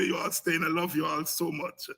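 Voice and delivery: usual speaking voice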